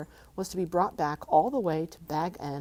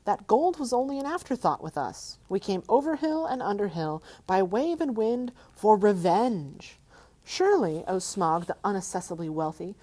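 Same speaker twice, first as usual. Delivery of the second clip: higher, louder defiant hobbit voice; 4 semitones higher, 4 dB louder than usual. Acted. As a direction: keep your end up before the dragon. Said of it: "in an effort to remain loyal".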